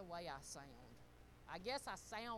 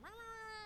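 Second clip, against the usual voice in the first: mock growl; 12 semitones higher than usual. Mimics her own gruff busyness.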